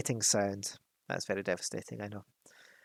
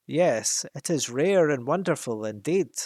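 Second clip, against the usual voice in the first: a louder, self-satisfied dragon purr; absurdly pleased; 2 semitones higher, 6 dB louder than usual. Acted. Smaug flattered by the hobbit's praise, absurdly pleased. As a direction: preen over the compliment. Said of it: "absurdly pleased".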